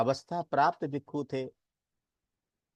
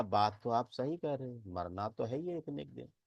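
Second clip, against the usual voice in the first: softer retold admission; subdued concession; 2 semitones lower, 6 dB quieter than usual. Villagers give in to the monk's argument, subdued concession. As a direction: concede the point, letting the volume fall away.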